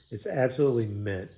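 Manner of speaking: dry, sarcastic mock praise. Real, not acted. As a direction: say it deadpan, meaning the opposite. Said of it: "I'm being a little sarcastic there".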